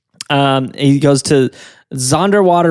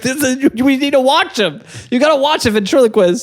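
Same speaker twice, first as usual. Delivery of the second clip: high, excited announcer voice; hammed-up showman voice; 9 semitones higher than usual. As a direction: pitch it up like a host. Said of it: "they're like".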